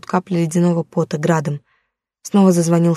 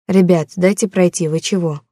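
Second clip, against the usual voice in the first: trying to sound calm. Acted. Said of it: "Стараясь, чтоб голос звучал спокойно".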